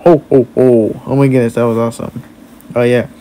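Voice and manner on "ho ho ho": lightly voiced Santa ho-ho-ho; Santa laugh. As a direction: do a small jolly Santa laugh. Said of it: "I'm good at making Santa laugh".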